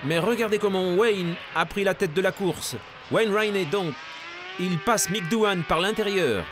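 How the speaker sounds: live race play-by-play; motorsport commentator. Acted. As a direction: call the lead change live.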